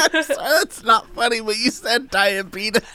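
high, laughing through it; cracking up mid-sentence. Real, not acted. Laughs at diabetes.

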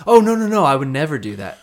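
put-on high, sweet little-old-lady voice; mock sweet old lady. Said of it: "her going".

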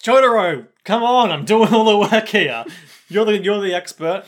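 loud, high-pitched mock complaint; exasperated calling out. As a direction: call out in hammed-up exasperation. Acted complaint calling to Jotaro.

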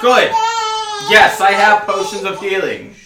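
put-on quavering old shopkeeper; old man voice, a bit shaky.

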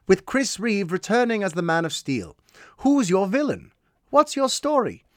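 reading a listener's question in a lightly put-on accent; Stephen's accent. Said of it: "I would read his question in his accent".

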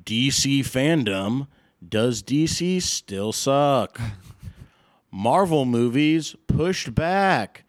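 slow, dramatic headline read; news anchor voice. Acted. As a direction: announce each headline like breaking news. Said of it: "I'll do the two big headlines here".

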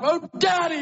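high-pitched but restrained cry; mild acted scream; mock scream for Daddy. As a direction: call out as a son to his father. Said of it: "screamed out".

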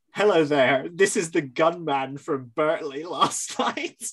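mock flat, matter-of-fact caller; bland voice. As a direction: read it like a dull phone call. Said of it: "in this very bland voice".

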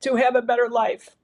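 holding back tears as she speaks; emotional. Real, not acted. Thanking her parents, choked up and emotional. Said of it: "I'm sorry for getting emotional about it".

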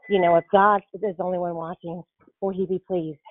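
breathless, gasping between phrases; out of breath. Real, not acted. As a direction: speak while winded. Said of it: "I'm out of breath".

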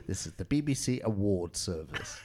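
put-on laughing, old BBC English announcer; 1930s English accent. Parodying the BBC for friends, 1930s English accent. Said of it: "nineteen thirties English accent".

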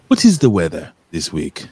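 retold lady with a Colombian accent. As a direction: ask it in a light Colombian accent. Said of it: "She was Colombian".

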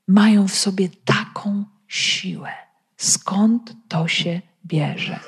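half-whispered, slowing into the question; hushed wonder. Acted. Preacher marvelling at simple men's strength, hushed. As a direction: drop to an amazed near-whisper.

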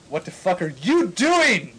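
overacted angry shout; mock angry shout. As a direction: yell it at the teacher in mock fury. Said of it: "I shouted angrily".

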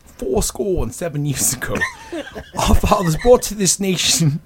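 attempted celebrity impression; lightly voiced mimicry of a film star; a hint of an impersonation; Sean Connery. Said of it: "Sean Connery".

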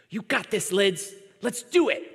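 lightly voiced little girl cheering herself on; a hint of a small child giving herself courage; little girl's pep talk. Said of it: "she talks to herself a lot".

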